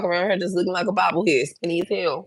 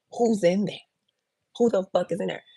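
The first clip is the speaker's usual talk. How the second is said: hushed disbelief; 3 semitones higher, 7 dB quieter than usual. Retold or imitated. Retold shock at the smell.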